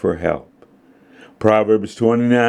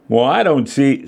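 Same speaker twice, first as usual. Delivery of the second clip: higher, mildly testy protest; snapped retort; 6 semitones higher than usual. A narrator's reading. Daughter answering Dad's advice, snapped. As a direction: cut back with a touch of temper. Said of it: "snapped Mary".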